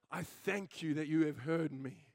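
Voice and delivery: reverent prayer. A narrator's reading. Reads Jesus praying to his Father.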